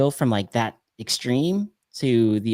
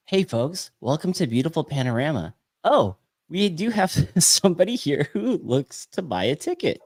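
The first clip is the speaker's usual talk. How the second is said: higher-pitched hammed-up welcome; pretend commercial host; 4 semitones higher than usual. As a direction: introduce a mock ad, close to laughing. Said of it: "I'll go first with this".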